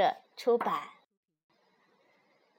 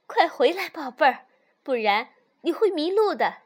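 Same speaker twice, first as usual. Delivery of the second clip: raised, louder mother's call; calling out loudly; 3 semitones higher, 7 dB louder than usual. A narrator's reading. Mother rabbit calls little fox back from the meadow, calling out loudly. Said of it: "妈妈大声喊".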